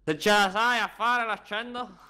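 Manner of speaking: hammed-up Sicilian; Sicilian accent. Shown as a demonstration. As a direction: attempt a sing-song Sicilian on request. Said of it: "Fai l'accento siciliano".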